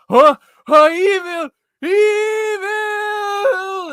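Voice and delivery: put-on panicked old superhero yelling "evil!"; Mermaid Man. Vlogger imitating a cartoon hero hearing about evil, panicked shout. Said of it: "Mermaid Man".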